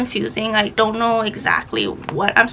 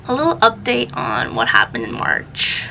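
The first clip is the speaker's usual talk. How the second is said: breathless, panting a little; out of breath. Real, not acted. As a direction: talk while catching your breath. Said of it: "I'm so out of breath".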